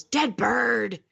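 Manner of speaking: a high, otherworldly voice, lightly imitated; eerie ghost voice. Retelling the voice captured on her audio recorder, eerie and high. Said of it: "And this voice goes".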